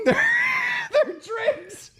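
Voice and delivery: high, breaking laughter on the punchline; laughing too hard to finish. Real, not acted.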